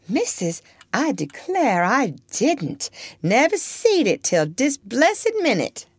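a hint of a sly girl, innocent surprise; lightly voiced girl. Topsy's voice.

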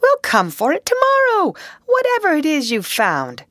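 high, loud call over the distance; calling back. Acted. Rat calling back to Mole from far ahead, loud. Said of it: "he called back".

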